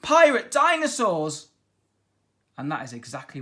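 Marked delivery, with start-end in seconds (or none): 0.0-1.5 high, loud gasp of alarm; boy announcing dinosaur pirates; shocked exclaim. A narrator's reading. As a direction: blurt it out in shock. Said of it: "he stammered".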